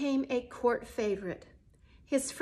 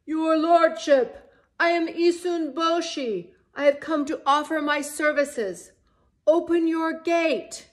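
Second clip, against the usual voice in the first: tiny bell-like voice; 6 semitones higher, 9 dB louder than usual. A narrator's reading. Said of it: "his tiny bell-like voice called out".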